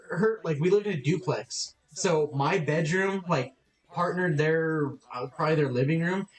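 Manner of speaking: ordinary talk, nothing marked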